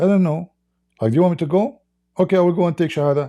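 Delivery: a hint of a coy young woman, fast at the end; mock woman's voice.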